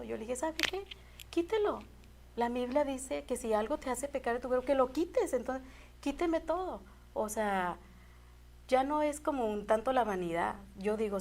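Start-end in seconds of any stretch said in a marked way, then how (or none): 0.4-6.8 higher-pitched, resolute reply; lightly acted, matter-of-fact insistence in a raised pitch; retold decisive answer. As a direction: retell a firm decision to the doctor. Retold firm answer to the doctor.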